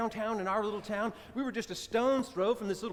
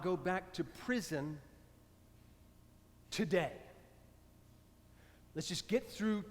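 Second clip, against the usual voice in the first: gentle coaxing; 6 dB quieter, slower than usual. Retold or imitated. Talking an angry man down.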